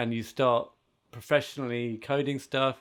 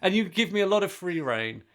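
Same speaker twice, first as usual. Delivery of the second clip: higher pitch, laughing through it; 6 semitones higher than usual. Real, not acted. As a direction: keep laughing as you praise. Fond laughing praise to Jeff.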